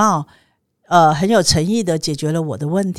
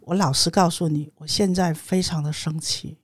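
controlled anger; 2 semitones lower, 6 dB quieter than usual. Retold or imitated. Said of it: "我说".

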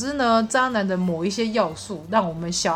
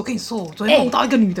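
excited; 2 semitones higher, 4 dB louder, faster than usual. Retold or imitated. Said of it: "兴高采烈跟我说".

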